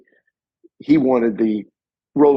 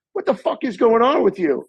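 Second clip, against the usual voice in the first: higher, exasperated imitation of a furious assistant; retold angry assistant, much higher; mock angry assistant; 11 semitones higher than usual. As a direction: bark it like a fed-up crew member bursting in. Production assistant bursts in yelling.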